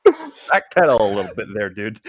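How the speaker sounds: teasing through a laugh; laughing tease. Real, not acted. Co-host laughs as he teases the Zelda slip. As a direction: rib him while laughing.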